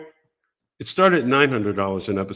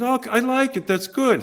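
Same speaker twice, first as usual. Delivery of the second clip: imitating Gary; 12 semitones higher than usual. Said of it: "And he says".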